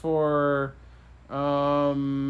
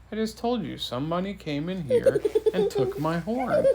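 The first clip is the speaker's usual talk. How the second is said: high-pitched mock indignation; storybook king losing patience; exasperated repeat; 6 semitones higher than usual. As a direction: insist on it, pitch raised, amused.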